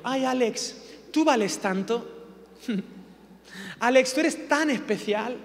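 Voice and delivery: lightly mocking, syrupy praise, slowed down; gushing flattery. Preacher mocking the flattering gospel, a hint of sugary gushing. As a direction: coo over him like he's precious. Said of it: "Nos han dicho".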